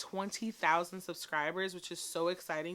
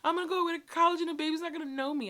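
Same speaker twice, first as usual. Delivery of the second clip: imitating her kid; 10 semitones higher, 5 dB louder, much faster than usual. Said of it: "And Reese was like".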